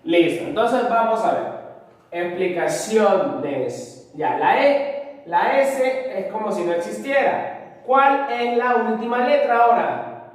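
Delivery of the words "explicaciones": "Explicaciones" drawn out slowly with weight on "cio"; stressed penultimate syllable. Shown as a demonstration. Teacher rechecking the word with students, slow "Explicaciones" leaning on CIO. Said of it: "la mayor fuerza de voz está ahí".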